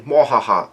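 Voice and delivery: spoken mock "mwahaha" cackle; imitated villain laugh. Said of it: "someone's laughing".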